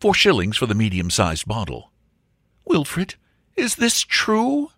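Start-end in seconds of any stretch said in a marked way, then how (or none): 2.7-4.7 high, slow, wondering question; earnest young woman. Acted. Angela asks Wilfred is this true, earnest and high. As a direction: lift it high, hang on the question.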